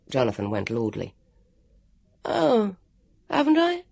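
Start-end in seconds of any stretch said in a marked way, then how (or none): 2.2-3.8 mock-innocent, higher, airy; careless. A narrator's reading. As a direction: toss it off as if it doesn't matter. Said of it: "he said carelessly".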